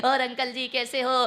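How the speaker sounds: polite, sugary greeting to the neighbour; mild sweet neighbourly tone; sweetly polite greeting. Retold or imitated. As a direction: sound friendly and respectful. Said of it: "कितने प्यार से बोलते हैं".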